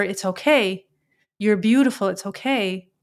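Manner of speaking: real tears, whispering it through; choked-up tenderness, barely voiced; gently comforting a dog while teary; tearing up. Real, not acted. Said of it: "it makes me tear up".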